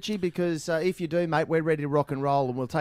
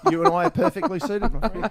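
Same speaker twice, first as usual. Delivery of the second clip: laughing; 7 semitones higher, 5 dB louder than usual. Real, not acted. Host jokes asking Richie out.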